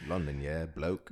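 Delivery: amused fake London bloke; mock British accent. Joking with co-host about London, mock British accent. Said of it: "It's a British accent, bruv".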